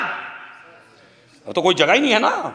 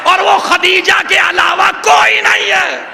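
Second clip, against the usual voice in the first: raised, slow, ringing pulpit voice; preaching at full force; 8 semitones higher, 3 dB louder than usual. Acted. Preacher to mourners in the majlis, thundering from the pulpit. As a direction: proclaim it to the whole hall.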